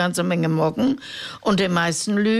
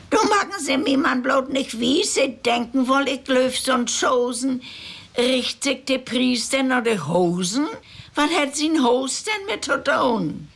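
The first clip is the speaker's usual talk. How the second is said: put-on old woman arguing; 6 semitones higher than usual.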